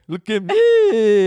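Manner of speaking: high, very slow seductive drawl; sultry pose voice. Retold or imitated. Mock seduction in crotchless panties.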